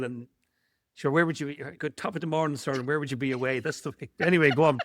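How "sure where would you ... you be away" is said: lightly put-on stage-Irish lilt; stage-Irish Darby O'Gill. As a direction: play up the Irish, just a little. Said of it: "what's the Derby O-, O'Dill".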